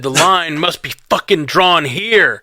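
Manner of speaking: slow, emphatic Picard line with a laugh; lightly voiced Picard declaration; Picard impression. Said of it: "And he said".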